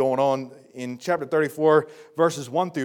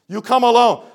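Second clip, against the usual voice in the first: "alone" pushed louder and higher on the repeat; stern insistent repeat; louder insistence; 6 semitones higher, 9 dB louder than usual. Shown as a demonstration. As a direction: hit "alone" harder the second time.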